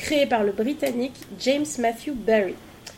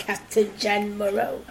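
Jeanne Moreau voice; 3 semitones lower than usual. Retold or imitated. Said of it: "une voix de Jeanne Moreau".

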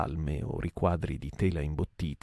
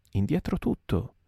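order; 5 semitones higher than usual. Acted. Order to back the oars.

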